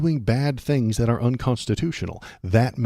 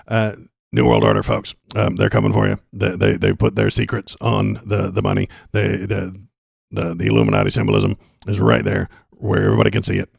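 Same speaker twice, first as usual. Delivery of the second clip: a loud, mock-frantic conspiracy radio host; hammed-up tinfoil-hat ranting; Alex Jones; 5 dB louder than usual. Streamer mocking a chat question as Alex Jones, loud and hammed-up. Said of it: "the Alex Jones comes in and out".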